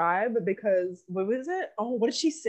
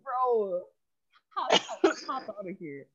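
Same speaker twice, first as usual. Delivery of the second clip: laughing dismissal; 5 dB quieter, slower than usual. Retold or imitated. Friend mocks a bad accent, laughing dismissal. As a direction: voice cracking with laughter, mock shooing. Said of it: "So I'm just like".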